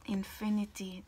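breathy whisper. Real, not acted. Whispered word.

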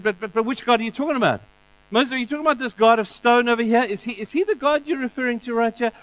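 quick, high scoffing Pharaoh; mocking Pharaoh. Pharaoh mocking Moses, voiced.

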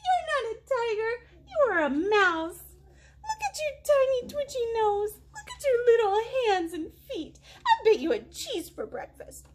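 high, giggling teasing voice; laughing mouse. Acted. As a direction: tease the tiger through giggles. Mouse mocks the tiger.

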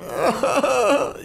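high breathy laugh; short high-pitched chuckling burst. Real, not acted. Nervous reaction to enemy.

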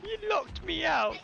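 high, stretched-out complaint; indignant protest. Real, not acted. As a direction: whine it accusingly at a teammate. Repeats protest at teammate.

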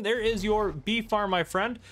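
slow, loud, proud unveiling; proud presentation. Shown as a demonstration. Presenting the finished farm to Gavin, slow and proud. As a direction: show off the farm with pride. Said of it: "presenting the farm to Gavin again".

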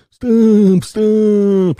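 loud squeaky high yell; high shouted stop. Acted. Fella blocking bus, shouting.

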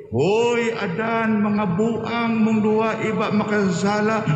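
a rough, scolding God calling Adam out; mock harsh scolding. Preacher showing how God did not speak to Adam, mild mock scolding. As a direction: bark it at him like an angry master, lightly.

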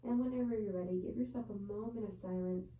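measured yoga teacher's voice with long pauses; guided yoga meditation. Real, not acted. Yoga teacher settling students into child's pose before bed, guided meditation voice. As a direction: guide them into each breath, unhurried. Leads bedtime breathing meditation.

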